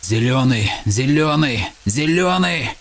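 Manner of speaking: building from glad call to joyous cry; shouting. Acted. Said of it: "закричал Феникс".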